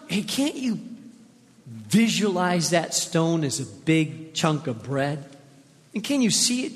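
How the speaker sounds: a smooth tempter egging him on to eat; tempting devil. Acted. Devil pressing Jesus to eat.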